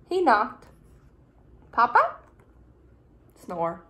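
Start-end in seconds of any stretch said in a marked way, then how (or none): 1.7-2.2 high, louder little snail voice calling; calling papa. Acted. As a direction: call up hopefully to a sleeping papa. Snail calls sleeping father.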